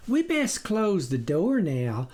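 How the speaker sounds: lightly voiced worried wife; wary wife. Wife to her husband about the storm, cautious. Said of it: "the farmer's wife commented".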